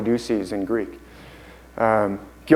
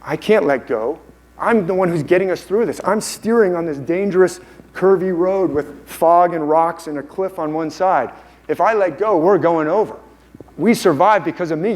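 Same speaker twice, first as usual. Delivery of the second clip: higher, urgent pleading as the controlling mind; cling to the wheel, pitched up; insistent mind persona; 5 semitones higher than usual. Acted. The mind refusing to give up control, high insistent voice. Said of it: "That's what your mind".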